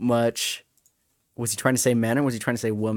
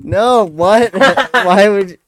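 high loud shocked protest; 7 semitones higher, 10 dB louder, much slower than usual. Real, not acted. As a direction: recoil in disbelief. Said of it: "shocked protest".

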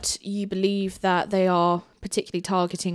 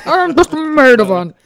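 loud laughing colonel voice; booming officer, cracking up; military officer; 5 semitones higher, 13 dB louder than usual. Acted. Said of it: "doing the Colonel Colony voice".

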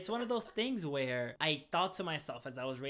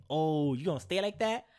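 sassy Cindy; 6 dB louder than usual. Retold or imitated. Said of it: "you just hear Cindy in the back".

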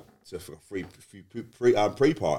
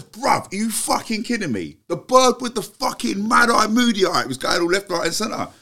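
higher and louder, slow exasperated disbelief; incredulous outburst; 12 semitones higher, 5 dB louder than usual. Retold or imitated. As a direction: replay the rant at full tilt. Arguing with Dave, retold.

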